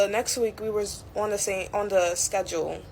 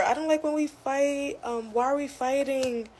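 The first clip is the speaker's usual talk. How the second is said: much higher, whining plea; whiny coworker; 7 semitones higher than usual. Retold or imitated. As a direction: mimic her childish whine, pitched high. Coworker's plea after ignoring her.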